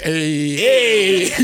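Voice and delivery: a light Michigan accent on hey. Shown as a demonstration. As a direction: toss off a quick Michigan hey. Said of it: "walking around the house being like".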